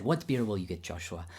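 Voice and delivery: a light imitation of teacher Babayan's accent. Teacher asking his pupil about beer, in imitated Babayan accent. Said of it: "I'll do my best Babayan accent".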